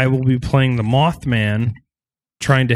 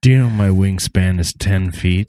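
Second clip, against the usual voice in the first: low monster voice; 4 semitones lower than usual. Acted. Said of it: "Your voice changed".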